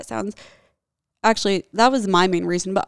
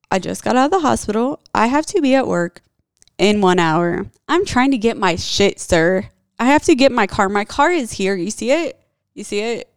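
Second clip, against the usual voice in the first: exasperated loud pleading; 2 semitones higher, 5 dB louder than usual. Retold or imitated. Pleading with cops, retold argument.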